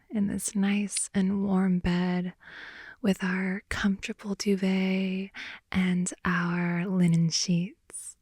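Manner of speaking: slow, drawn-out whisper about the cosy bed; slow ASMR whisper. Acted. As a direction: whisper it lazily, savouring each word.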